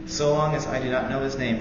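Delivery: usual speaking voice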